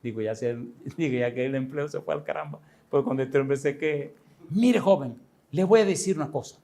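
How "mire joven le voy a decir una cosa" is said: higher, tense opening of a warning; a hint of a trembling, intense old man. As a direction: start to shake as you warn him. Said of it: "se puso así tembloroso".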